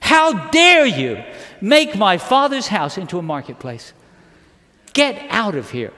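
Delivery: acted indignant rebuke, punched at the start; forceful scolding that eases as it goes; righteous indignation. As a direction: confront them with stern outrage. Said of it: "Righteous indignation".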